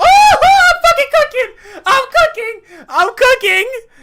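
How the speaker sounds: very high, very loud, excited hyped yelling. Editing a video live, suddenly yelling with excitement: excited shouting. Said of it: "I get excited".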